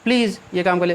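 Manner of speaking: a half-hearted demo of shouting a request; mock shouted please. Shown as a demonstration. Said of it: "आप किसी से चिल्ला कहेंगे".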